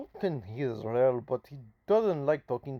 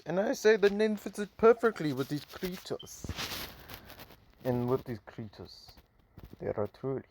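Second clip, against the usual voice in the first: light, stereotypical put-on Russian accent; a hint of a Russian accent, spitballing a hero's monologue; Shutter's Russian accent. Mysterious hero introduces himself to viewers, mild Russian accent. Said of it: "My Russian accent for maybe the Russian character".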